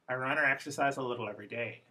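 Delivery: fast, "or" and "a" reduced to schwa; defocused English. Shown as a demonstration. Teacher demoing defocused speech to the class. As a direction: run "I run or exercise a little every day." together with schwas.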